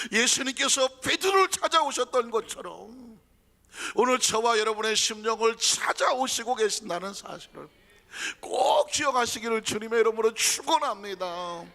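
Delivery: loud, high preacher's blessing; forceful preaching. Acted. Preacher blessing the congregation, loud and fervent. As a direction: proclaim it to the congregation.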